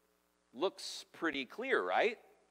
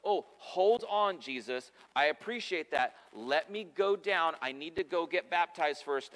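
mock thief on the cross; 3 semitones higher, 4 dB louder than usual. Preacher imagines the thief interrupting Jesus, mock protest. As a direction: play a thief politely stalling Jesus. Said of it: "what the thief didn't say was".

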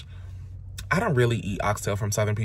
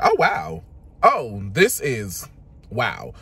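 slow, dragged-out fake politeness; mock unimpressed; 4 semitones higher, 4 dB louder, much slower than usual. Recalling the dry chicken, dragged-out mock politeness. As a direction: pretend to be impressed by dry chicken. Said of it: "I was like".

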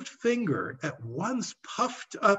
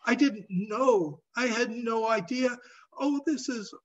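stuttering; 7 semitones higher than usual. A narrator's reading. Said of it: "he stuttered".

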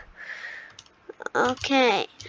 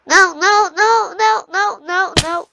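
rapid, louder, higher string of no's; panicked no's; 4 semitones higher, 5 dB louder than usual. Real, not acted. Player watching his jump go wrong, panicked. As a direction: plead with the game not to fail. About to fall in game.

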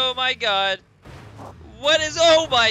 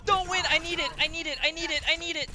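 desperate pleading; 5 semitones higher, 3 dB quieter, much faster than usual. Real, not acted. Pleading to win a prize.

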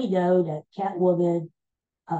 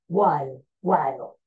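put-on Preminger accent; 2 semitones lower than usual. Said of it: "That was his catchphrase".

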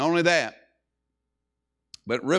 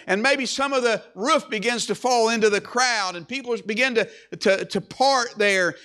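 animated, higher-pitched pulpit storytelling; preacher telling it with rising energy; animated preaching; 5 semitones higher, 3 dB louder than usual. Acted. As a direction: build the sudden commotion for the congregation. Preacher builds the rooftop story.

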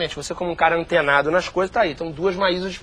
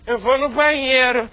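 preteen voice; 4 semitones higher than usual. Acted. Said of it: "simular o processo de envelhecimento".

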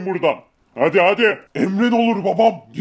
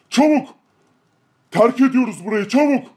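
urgent shout; 3 semitones higher than usual. Acted. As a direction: snap them into moving. Urging the men to hurry. (acele ettiren bağırış)

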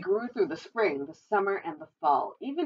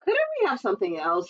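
grumbling; 4 dB louder than usual. Acted. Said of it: "he grumbled".

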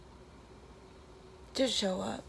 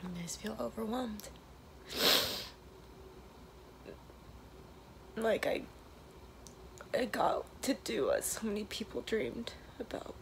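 emotional, near tears, half whispered; tearful goodbye. Real, not acted. Emotional trailer video, last day.

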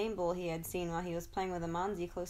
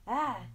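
scream; 5 semitones higher, 4 dB louder than usual. A narrator's reading. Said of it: "Zico screamed".

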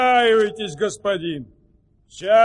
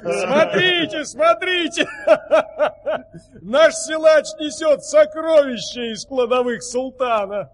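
calling out; 3 semitones higher than usual. Acted. Servant calls out to crowd.

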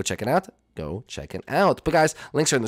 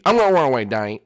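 Jeffy voice; 4 dB louder, faster than usual. Acted. Jeffy insisting.

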